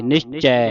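ਨਿਸ਼ਚੈ with a wide open final ai; open ai ending. Shown as a demonstration. Teacher explains the vowel sign, open ai in ਨਿਸ਼ਚੈ. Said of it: "ਚਰਚਿਤ ਲੱਗੀਆਂ ਦਲਾਵਾਂ ਇੱਥੇ".

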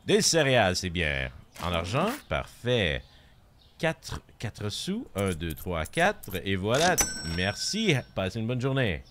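lightly played French shop clerk, lilting; French shopkeeper. Streamer doing a French version of shopkeeper on request, playful clerk patter. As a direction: serve the customer in French, playfully. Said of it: "Can you do the French version of shopkeeper?".

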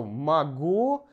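"могу" with the first vowel as "a", stress on the end; "могу" with a clear "a" for the unstressed O. Shown as a demonstration. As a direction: say "могу" as "ma-GOO". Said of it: "pronounced like".

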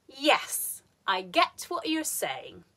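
YES high and falling, SAYING drops away; firm "Yes", then let "saying" fall; falling intonation. Shown as a demonstration. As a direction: clear statement falling on "saying". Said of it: "falling intonation is very common in statements".

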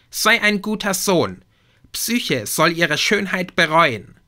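high, loud scolding goddess; angry Aphrodite. Acted. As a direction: bark orders at your son, shrill and furious. Aphrodite commands her son. (Aphrodite befiehlt ihrem Sohn, hoch, laut und wütend)

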